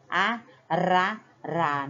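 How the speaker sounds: a, ra, ra with a light flapped r; tapped R. Shown as a demonstration. Teacher sounding out the weak R for children. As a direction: tap the r lightly. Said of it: "Olha como o som saiu tremido".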